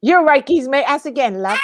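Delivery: amateur copy of a Cockney greeting; mock East London Cockney; imitated Cockney. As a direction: parrot the London geezer accent. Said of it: "do a little Cockney for me".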